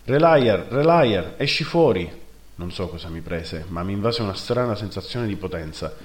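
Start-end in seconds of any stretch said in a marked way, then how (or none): 0.0-2.2 loud, high call to come out; shouting. Acted. Narrator yelling for his brother at the camp gate, loud shout. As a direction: yell his name across the gate.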